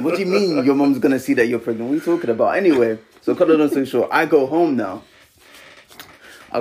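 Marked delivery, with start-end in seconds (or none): 0.0-2.6 raised pitch, mock exasperated reasoning; incredulous retort. Young dad retelling his reply to his panicking girlfriend, incredulous. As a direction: retell it as a disbelieving objection.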